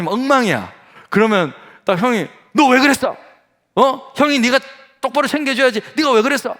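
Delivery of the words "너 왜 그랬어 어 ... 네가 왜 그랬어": put-on raised-pitch telling-off of an elder child; mock parental scolding. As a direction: play a parent demanding an explanation. (부모가 높은 목소리로 꾸짖듯)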